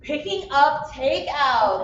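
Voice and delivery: slow, drawn-out repeat. Real, not acted. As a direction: stretch out each word. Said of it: "repeating the suggestion".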